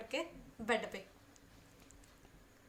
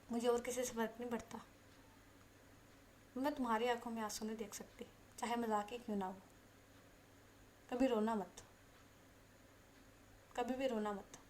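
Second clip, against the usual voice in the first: earnest and serious; 6 dB quieter than usual. Acted. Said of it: "serious होके ये बात बोल रही थी".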